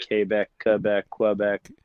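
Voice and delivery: "Quebec" three ways: kay-beck, kuh-beck, kweh-beck; change the first syllable of each "Quebec": kay, kuh, kweh; varied pronunciations. Retold or imitated. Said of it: "they each have a different pronunciation".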